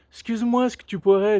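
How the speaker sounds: imitating an overly cautious parent; timid request. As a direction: ask gingerly, as if afraid to disturb. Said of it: "arrivent presque sur la pointe des pieds".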